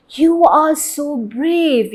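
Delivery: put-on slow, loving praise to a toddler. Shown as a demonstration. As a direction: say it slowly and lovingly to a small child. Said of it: "certain words that I speak very slowly and very lovingly".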